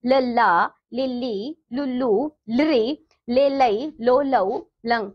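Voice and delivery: "लल्ला, लिल्ली, लुल्लू" recited in short-long vowel pairs; syllable drill. Shown as a demonstration. Teacher running ल through every matra, syllable drill. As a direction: chant each pair from "लल्ला" to "लंग" with small pauses between. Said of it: "आप यहाँ पर ल भी ले सकते हैं".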